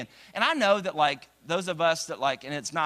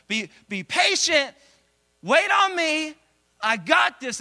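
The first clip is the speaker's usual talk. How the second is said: higher, louder reassuring voice; God's reassurance; 10 semitones higher, 6 dB louder, slower than usual. Retold or imitated. God to impatient believers, higher reassuring call. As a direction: reassure up high.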